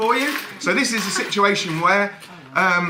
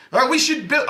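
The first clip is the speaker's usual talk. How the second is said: put-on French accent; 7 semitones higher than usual. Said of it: "I can't do a French accent".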